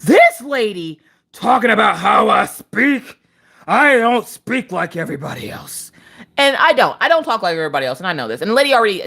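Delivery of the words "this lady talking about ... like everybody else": slow, high, drawn-out complaint; hammed-up offended rant; indignant. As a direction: wail the grievance in mock outrage. Acted outrage to her friend.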